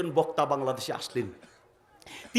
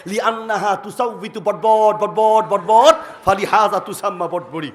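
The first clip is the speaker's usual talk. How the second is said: engine sound joke; 6 dB louder than usual. Retold or imitated. Imitating engine sound in Arabic.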